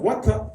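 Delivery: water with a crisp T, 워타; British pronunciation. Shown as a demonstration. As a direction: model British-style water with a clear T. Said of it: "나는 영국식". (영국식으로 T를 살린 water)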